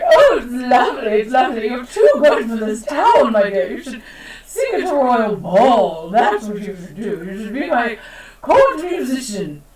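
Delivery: lightly voiced delighted queen; a hint of a gushing royal. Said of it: "And the queen's just like".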